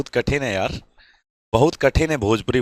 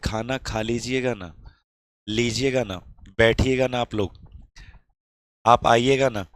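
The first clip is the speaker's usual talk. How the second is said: loving respectful Bhojpuri. Shown as a demonstration. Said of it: "कितने प्यार से इज्जत से बोला जाता है". (नरम, धीमे, इज्जत भरे लहजे में खाना खा लीजिएगा ना)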